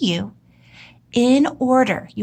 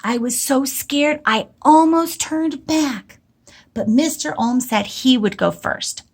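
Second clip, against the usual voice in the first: saying it to myself; 2 semitones higher than usual. Shown as a demonstration. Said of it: "I'm going to say to myself".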